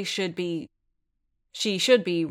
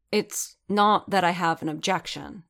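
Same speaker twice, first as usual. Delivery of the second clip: snapping. Acted. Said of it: "Din snapped".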